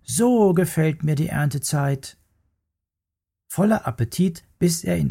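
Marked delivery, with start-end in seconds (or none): 0.0-2.2 pleased little bear. Acted. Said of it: "rief der kleine Bär".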